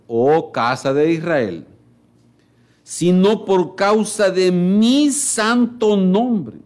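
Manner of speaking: scripture reading. Acted. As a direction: proclaim the verses solemnly. Reads Ezekiel aloud in sermon. (lectura solemne de la Escritura)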